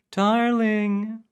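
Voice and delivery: calling out the name, high and loud. Acted. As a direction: shout it up high across the room. Name called out loudly.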